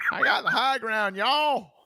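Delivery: very high, swooping backwoods hillbilly voice. Riffing on a movie line, answering as a hillbilly version: Hillbilly Ben voice. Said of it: "What is that, Hillbilly Ben?".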